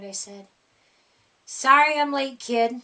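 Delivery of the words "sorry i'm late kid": loud, casual monster apology; monster Gabe. A narrator's reading. Monster Gabe apologising to the child for being late. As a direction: drop in like an old monster pal.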